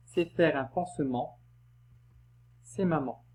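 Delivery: poem read line by line with long pauses; lecture vers par vers. Shown as a demonstration. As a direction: recite each line separately so the endings can be heard. Relit la strophe vers par vers. (lecture posée du poème, vers par vers)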